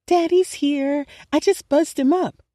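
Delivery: high, bright excited announcement. Acted. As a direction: burst in with happy news. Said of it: "grinning excitedly".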